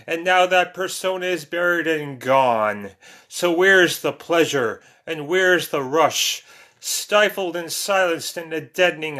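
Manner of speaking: rhythmic rhymed verse reading; measured, emphatic poem delivery; poetry recitation. Acted. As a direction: declaim it line by line in steady metre. Recites second poem to viewers.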